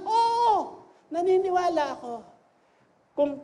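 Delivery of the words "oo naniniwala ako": much higher, loud eager shout; eager shouted answer; shouting yes. Retold or imitated. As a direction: shout it out like the loudest fan. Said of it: "Katabi na niya sumisigaw".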